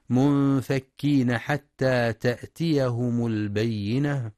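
Quran recitation. Acted. Teacher reciting the opening of al-Bayyina for students. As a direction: draw out each vowel in recitation.

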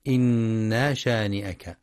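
إنا شانئك with the nun drawn long, the wrong way; stretched nun. Shown as a demonstration. Teacher showing the mistake, stretched nun. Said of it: "ويخطئ من يقرأ إنا بمد النون".

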